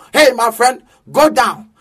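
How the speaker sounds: gruff imitation of a rude American passenger; mild mock American rant; mock American English. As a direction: spit out broken American English. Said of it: "edwa American brɔfo gu me so".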